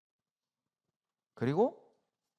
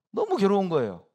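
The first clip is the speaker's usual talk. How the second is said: anguished cry; 8 semitones higher, 9 dB louder than usual. Real, not acted. Anguished outburst.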